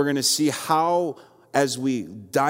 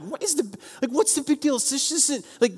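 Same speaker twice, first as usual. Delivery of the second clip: getting annoyed; 13 semitones higher, faster than usual. Retold or imitated. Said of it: "starting to get mad".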